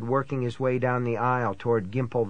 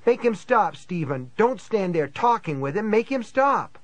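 high, distraught woman begging; high-pitched, panicky tearful pleading; sobbing plea; 6 semitones higher than usual. A narrator's reading. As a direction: beg tearfully, pitch climbing on each demand. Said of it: "she sobbed".

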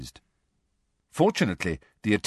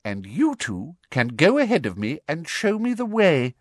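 high, controlled order; prim official in charge; Umbridge, commanding; 8 semitones higher than usual. Acted. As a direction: direct the captives imperiously.

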